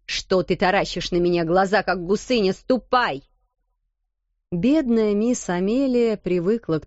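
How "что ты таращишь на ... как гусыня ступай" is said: stern scolding. Acted. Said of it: "сурово ответила".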